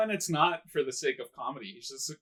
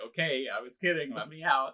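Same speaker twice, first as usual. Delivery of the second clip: mild, understated request; retold calm; 4 dB quieter than usual. Trapped man at first asking out, mock calm. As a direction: play it down casually at first. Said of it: "like, calm about it at first".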